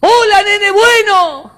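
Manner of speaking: high, slow, loud call; friendly calling out. Acted. Boy greets the other child kindly, calling out. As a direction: holler a sweet greeting across a valley.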